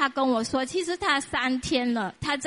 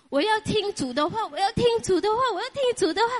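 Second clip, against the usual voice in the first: building longing; 6 semitones higher, faster than usual. Real, not acted. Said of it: "repeated longing for God's word".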